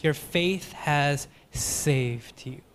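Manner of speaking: slow, soft and tender; Jesus blessing the healed Samaritan, slow and soft. Acted. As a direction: lay it down slowly and softly. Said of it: "Literally in the Greek is".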